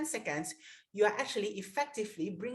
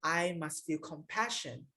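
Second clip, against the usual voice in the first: compassionate reflection; slower than usual. Shown as a demonstration. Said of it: "I can say that".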